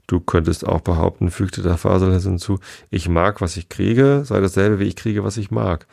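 lively read-aloud storytelling; story narration. A narrator's reading. Reader telling Alice to sleepy listeners, lively narration. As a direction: read it to children at bedtime.

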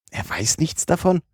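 a sudden, high, keen interest; eager question. Acted. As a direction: pounce on the news eagerly. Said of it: "fragte Fix lebhaft".

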